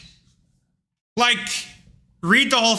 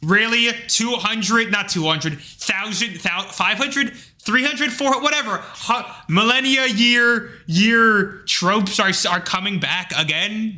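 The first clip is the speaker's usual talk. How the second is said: exasperated retort; 4 semitones higher, slower than usual. Retold or imitated. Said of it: "and I'm like".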